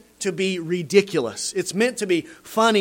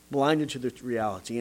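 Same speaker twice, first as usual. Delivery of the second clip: repeated softer and lower, sinking in; soft lowered repetition of blinded; quiet echo; 7 semitones lower, 5 dB quieter than usual. Shown as a demonstration. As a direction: let the phrase drop into a hush.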